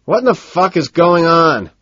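high, loud, furious question; seething. A narrator's reading.

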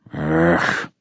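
low waking grunt. Acted. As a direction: groan it out low. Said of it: "grunted the old poet".

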